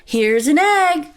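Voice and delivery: put-on high, loud child's call; eager shout. A narrator's reading. Jack brings his mother the egg, eager shout. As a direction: shout it out proudly. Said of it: "shouted Jack".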